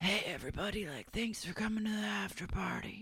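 very soft, high, hoarse, raspy, sickly voice. Retelling how Brett, unwell, spoke on arriving at the after party, imitating Brett's raspy voice. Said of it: "His voice is raspy as hell".

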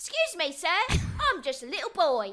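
exaggerated Cockney accent. Speaker who loves doing Cockney way over the top: exaggerated Cockney accent. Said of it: "I love doing it way over top".

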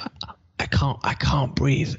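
mock faint, barely able speech. A husband retells his wife's phone call, imitating her barely talking. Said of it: "she's barely talking".

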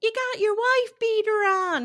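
screeching holler, very high and very loud. Retelling a tv scene where a woman pulls up yelling: imitating someone yelling. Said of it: "she's yelling".

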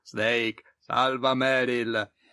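flat, dead monotone, like a dubbed voice. Asked by the other speaker to redo the Colonel's Italian-dub voice. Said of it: "Vuoi rifarmi per favore la voce del colonnello?".

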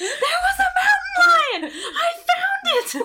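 very high-pitched, screamed outburst. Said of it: "and I started screaming about it".

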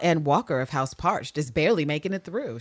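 ordinary delivery

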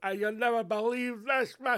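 put-on, high, weepy blubbering like a little girl. Describing the documentary tone to avoid, the speaker does mock sobbing. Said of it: "crying like a wee lassie sobbing".

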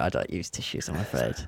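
low, hushed, prim mock-posh voice.

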